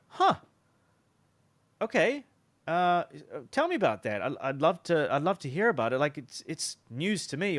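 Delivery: put-on childlike curiosity. Shown as a demonstration. Salesman answering a burned prospect with childlike curiosity. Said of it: "with childlike curiosity".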